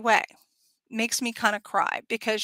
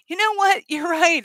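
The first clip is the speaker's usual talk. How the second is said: laughing agreement; 7 semitones higher, 5 dB louder than usual. Pretend. Friend laughingly agrees, shared laugh.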